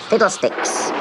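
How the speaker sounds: "Fiddlesticks" breathed as a whisper, not shouted. Retold or imitated. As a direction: hush the magic word.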